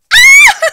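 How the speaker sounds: very high, loud shriek into laughter; joyful scream and laugh. Real, not acted. Overjoyed at new heels, shriek and laugh. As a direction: scream with joy then laugh. Thrilled by the shoes.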